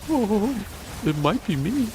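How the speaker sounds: high, loud sheepish dog voice; voicing the guilty dog, high and loud. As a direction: squeak out the dog's confession. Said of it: "the dog's like".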